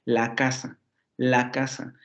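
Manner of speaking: "la" unstressed, glued onto "casa"; clitic "la" joined. Shown as a demonstration. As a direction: run "la casa" together as one word. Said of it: "se pega a casa". ("la" átona, pegada a "casa")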